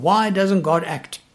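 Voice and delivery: normal talking voice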